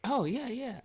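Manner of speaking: put-on high, clipped Asian-accented "Oh, yeah, yeah"; mild imitation of her accent. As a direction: mimic her accent lightly. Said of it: "I said it like that because she's Asian".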